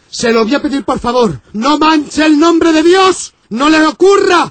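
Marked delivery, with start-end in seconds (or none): 1.5-4.5 priest shouting. Acted.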